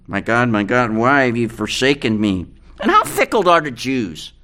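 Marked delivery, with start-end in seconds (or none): 0.1-2.5 low, subdued cry of abandonment; hushed, heavy scripture quote; solemn quotation. Retold or imitated. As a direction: quote it gravely, pitched well down. Repeats the forsaken cry solemnly.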